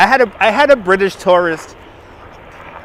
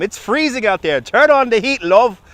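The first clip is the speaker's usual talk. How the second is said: mock British. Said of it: "Lizzie Baker from the United Kingdom".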